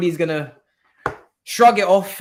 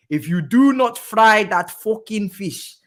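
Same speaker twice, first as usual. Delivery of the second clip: Arteta impression; 4 semitones higher, 3 dB louder, slower than usual. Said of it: "as Arteta would say".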